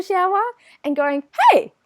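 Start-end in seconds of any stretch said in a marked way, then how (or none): 1.5-1.7 mock bliss. Mock bliss in a quiet shower.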